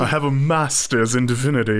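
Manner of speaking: a bad posh British accent. Shown as a demonstration. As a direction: say it like a grand Englishman. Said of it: "terrible British accent".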